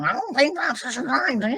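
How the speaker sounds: high, raspy cartoon mom voice; Marge Simpson impression. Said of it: "Marge Simpson".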